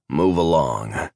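slow, drawn-out creature command; alien captor's order. A narrator's reading. Alien shoves Addie forward, slowly ordering her.

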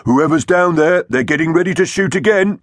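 high, urgent alarm; warning. A narrator's reading. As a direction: warn the crew with the pitch held up high. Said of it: "Iggy warned them".

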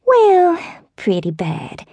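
put-on high, slow, wavering old-lady voice; elderly southern neighbor. A narrator's reading. Neighbor phoning with bad news, slow high old-lady voice.

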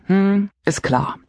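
langsames, gedehntes „Hm, ist klar“; trockene Bestätigung. A narrator's reading. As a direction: stimm gelangweilt langsam zu. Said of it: "bestätige". (Erzählerin bestätigt der Anruferin trocken und langsam)

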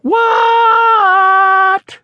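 high loud shout; shouted what. Acted. Froggy shouting back from bed to his father, high shout. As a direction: yell it back, high and startled.

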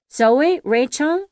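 loud, high frightened question; alarmed. A narrator's reading. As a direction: cry out the names in fear. Asks after the children.

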